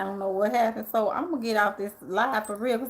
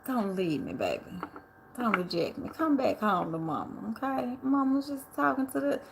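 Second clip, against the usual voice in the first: smooth pimp swagger. Pretend. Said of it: "I'll be talking like a pimp".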